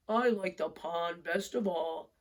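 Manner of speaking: a moose asking a friend. Acted. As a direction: give it a big moose voice. Moose voice, slow.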